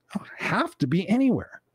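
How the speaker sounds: a private realization under the breath; whispered thought. Retold or imitated. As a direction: whisper it to yourself.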